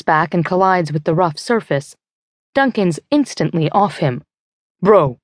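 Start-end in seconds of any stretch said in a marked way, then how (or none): 4.8-5.2 worried cry. Acted. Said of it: "he cries".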